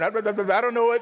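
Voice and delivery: a light nervous stammer; stuttering Moses. Acted. Moses suddenly losing his nerve, stammering lightly. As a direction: stumble over the first word as Moses. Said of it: "Then he starts stuttering".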